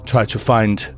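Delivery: put-on hesitant, courteous accented host; lightly voiced foreign gentleman introducing his family; polite introductions with careful pauses; undead host. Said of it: "He's like".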